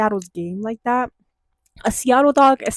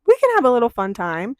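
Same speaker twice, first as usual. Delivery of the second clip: playful coaxing; 3 semitones higher than usual. Retold or imitated. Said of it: "I was like".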